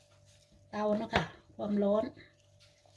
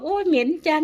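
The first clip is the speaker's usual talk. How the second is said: higher and louder mock grumble, imitating grandpa; grandpa's grumble; 6 semitones higher, 6 dB louder than usual. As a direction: playfully mimic a fussy old man. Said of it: "แกบอก". (เลียนเสียงคุณตาบ่นแบบแกล้งๆ เสียงสูงและดังขึ้น)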